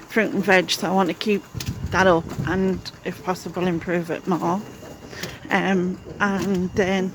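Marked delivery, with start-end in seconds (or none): 5.5-7.1 talking while bumping along; on a bumpy road. Real, not acted. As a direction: voice jolted by bumps. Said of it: "sorry, it's a bit bumpy".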